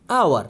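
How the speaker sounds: আওয়ার opening straight on the vowel; teacher models আওয়ার; silent h. Shown as a demonstration. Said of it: "এই যে আওয়ার".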